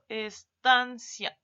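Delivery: "Estancia" stretched out very slowly; slow example word. Shown as a demonstration. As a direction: read "Estancia" slowly so the class hears each syllable. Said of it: "¿cuál de estas palabras tiene acento separativo?".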